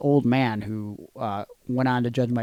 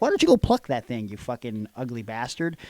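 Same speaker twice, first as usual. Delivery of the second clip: angry insult. Retold or imitated. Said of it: "where I'm like".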